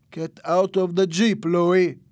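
loud, high command; barked order. A narrator's reading. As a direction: order him out forcefully. Man orders Louis out at gunpoint.

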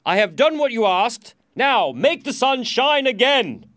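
high, loud, exasperated royal yell; impatient shout. A narrator's reading. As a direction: shout your demand, slowing for force. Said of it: "shouted the king impatiently".

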